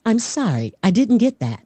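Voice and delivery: virtual assistant's stock apology; reply like a voice assistant. Shown as a demonstration. Answering the rapper's other questions, AI assistant voice. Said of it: "more of an A I voice".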